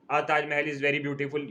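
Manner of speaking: slow आ Taj Mahal with a wrong "आ"; mock the mistake with "आ"; wrong article again. Shown as a demonstration. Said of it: "ये कोई sentence थोड़ी हुआ". (गलत "आ" वाला वाक्य, धीरे)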